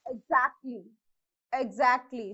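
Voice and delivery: Exactly with the stress on its middle syllable; second-syllable stress. Shown as a demonstration. Teacher demonstrating Exactly, stressed second syllable. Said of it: "on the second syllable".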